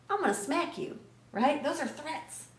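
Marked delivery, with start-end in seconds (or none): 0.1-1.0 mock threat. Acted threat.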